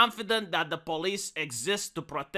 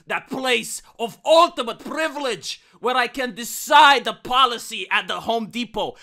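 scheming villain monologue; gloating mastermind, theatrical; hammy stage actor; 5 semitones higher, 4 dB louder than usual. Acted.

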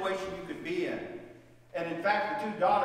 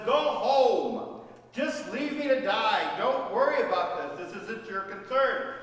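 pleading push; 3 semitones higher, 5 dB louder than usual. Acted. Naomi urging Ruth to leave.

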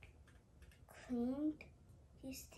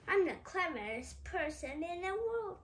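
boastful; 6 semitones higher, 8 dB louder than usual. Acted. Mister Clever boasting.

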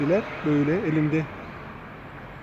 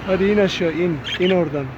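raised coaxing calls to the bird; calling out. Real, not acted.

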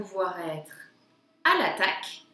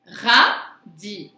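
"Radis" as a loud ra, gap, then di; syllable by syllable; 3 semitones lower, 8 dB louder than usual. Shown as a demonstration. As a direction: separate the two syllables of "Radis". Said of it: "sur la deuxième syllabe".

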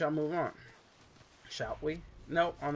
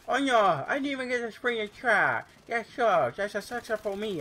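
much higher and louder, hammed-up despair; high mock-dramatic redo; 10 semitones higher, 7 dB louder than usual. Shown as a demonstration. Gamer redoing his line in a shrill theatrical wail. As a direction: overact the disappointment in a high squeal. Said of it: "Oh, wait, sorry".

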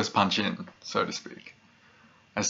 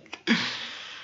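long, soft, falling sigh; sigh after laughing; 4 semitones higher, 5 dB quieter than usual. Acted. Pyromaniac recovers from laughing about the cats, long sigh. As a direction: let the laughter wind down in a sigh.

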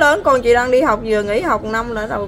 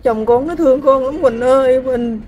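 emotional plea; 3 dB louder than usual. Real, not acted. Mother pleads to runaway daughter.

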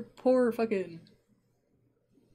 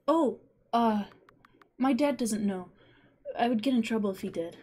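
put-on boy voice; 3 semitones higher than usual.

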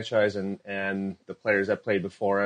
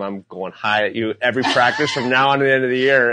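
retold threat; 2 semitones higher, 7 dB louder than usual. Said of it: "I said".

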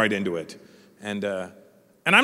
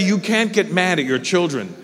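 ordinary talk, nothing marked

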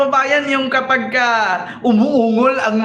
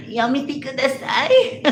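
mock Japanese; 5 semitones higher, slower than usual. Callback to Japanese parody.

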